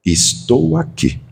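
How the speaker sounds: gentle comfort. Shown as a demonstration. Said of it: "você vai dizer assim pra ela".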